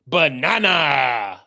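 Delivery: drawn-out Minion cry; lightly voiced Minion catchphrase; Minion impression. Quoting the first Minions movie, lightly voiced Minion. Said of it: "I only saw the first Minions".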